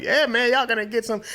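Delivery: high, animated tough-guy quote; comic menacing gangster impression; mock mobster threat. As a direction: play a mobster warning everyone. Voicing a Russian mobster's threat.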